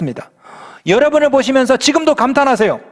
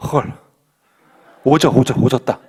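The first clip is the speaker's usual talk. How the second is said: put-on 오져 dropped low, a stunned teen's slang; slangy awe; 9 semitones lower than usual. Pastor voicing God in teen slang, low stunned awe. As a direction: mutter it like an amazed kid. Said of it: "뉘앙스를 살려서 번역해 드릴게요".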